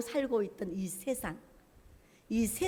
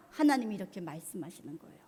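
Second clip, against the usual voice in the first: ordinary delivery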